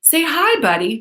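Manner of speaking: high, sing-song parent coaxing; cute parent voice. Retold or imitated. Mom urging her son to greet, cutesy. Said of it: "doing that thing that us fucking cute parents do".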